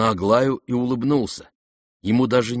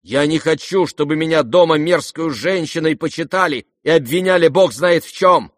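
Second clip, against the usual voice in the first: high, loud, heated complaint; indignant girl; 8 semitones higher, 8 dB louder than usual. A narrator's reading. Aglaya to the prince, indignant and loud. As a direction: pour out the grievance hotly.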